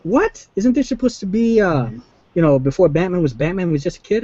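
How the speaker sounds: mock baffled high voice; incredulous brother. Brother asking about young Batman, mock incredulous.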